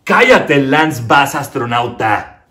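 loud, slow puppet put-down; puppet telling off. Acted. Puppet telling the comedian to shut up, loud. Quarrel continues, puppet insult.

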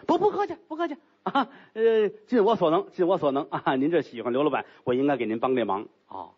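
hurried, tongue-tripping reassurance; flustered denial. Acted. Gao hastily waves off thanks, flustered. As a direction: rush to wave it off.

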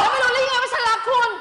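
angry retort. Acted. Rehearsed quarrel, hurt retort.

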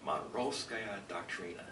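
Monroevskaya Doctrina in a flat American accent, slow. Shown as a demonstration. Lecturer repeats the Russian term for the audience in an American accent. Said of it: "I'll say it in an American accent".

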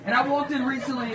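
ordinary talk, nothing marked

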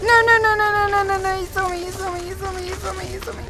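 high rapid frightened repeating; panicked. Real, not acted. Gamer spotted by the monster, high panicked repeating. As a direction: spiral into panic, pitched high.

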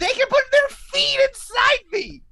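high squealing creature shout; Garterton voice. Acted. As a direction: shriek it in a tiny squeaky voice. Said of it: "not scared by that impression".

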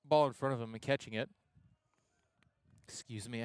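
talking through hiccups. Real, not acted. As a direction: speak with hiccups. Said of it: "I have the hiccups".

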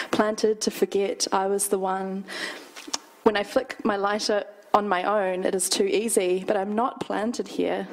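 measured, deliberate poetry reading; poem reading. Acted. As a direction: read it as your own poem, unhurried. Reads own poem aloud.

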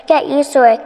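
loud sneering cackle; mock the girl with a cackle; cackling witch. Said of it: "cackled the witch".

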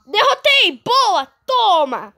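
triumphant high cheer; excited. Real, not acted. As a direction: cheer the win, pitch up. Beats the Slenderman in game.

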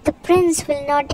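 mild scolding with a lift on the last word. Acted. Henry objecting to the bet, scolding. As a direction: scold in measured disapproval. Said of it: "Henry scolded".

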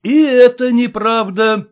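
loud, high firm retort; heckler's firm denial. A narrator's reading. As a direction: state it flatly from the front row. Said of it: "твёрдо сказал голос".

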